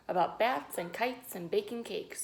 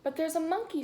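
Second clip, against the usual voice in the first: put-on excited kid; 9 semitones higher, 5 dB louder than usual. A narrator's reading. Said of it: "said a boy".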